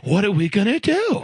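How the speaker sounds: mimicked Long Island Italian helplessness; Italian guy accent. Colleague imitating a worried racist dad, Long Island Italian accent. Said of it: "he talked like this, Italian guy".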